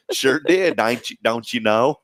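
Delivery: put-on playful country-Fargo accent mix; country accent sliding into Fargo; mock Fargo-country twang. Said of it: "I threw in a little Fargo with country".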